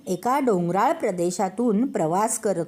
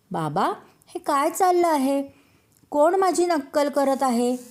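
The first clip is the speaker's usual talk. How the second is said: surprised question; 6 semitones higher than usual. A narrator's reading. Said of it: "आश्चर्यचकित होऊन वडिलांना विचारले".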